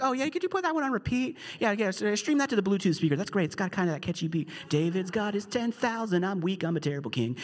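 a jealous king sneering at the song, then sulking; sarcastic king. Retold or imitated. Pastor voicing jealous King Saul, sarcastic then sulky. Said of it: "The king's like".

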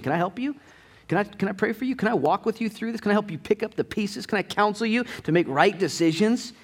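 high, gentle run of offers; caring offer. Acted. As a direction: pitch it up like a helper reaching out. Acting out helpers offering support.

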